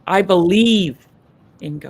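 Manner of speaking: "believe" loud and stretched, "in God" dropping away; big emphasis on "believe"; stress on BELIEVE. Shown as a demonstration. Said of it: "just slight emphasis changes".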